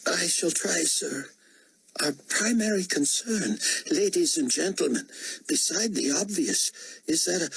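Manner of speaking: high, formal subordinate's voice; deferential security director. Acted. Security director addressing ladies and gentlemen, high and formal. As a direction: struggle to resume the official report. Director resumes his report.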